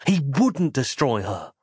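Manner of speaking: ordinary delivery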